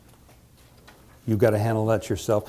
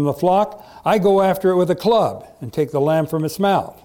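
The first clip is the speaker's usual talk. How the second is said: animated, higher-pitched quoted boast; confident story reading; 6 semitones higher than usual. A narrator's reading. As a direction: read David's assurance to the king with spirit. Reads young David's boast.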